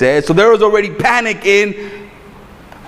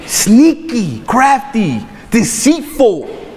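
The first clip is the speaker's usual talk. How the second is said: sly; 6 semitones higher, much slower than usual. Pretend. Preacher repeats serpent words, higher.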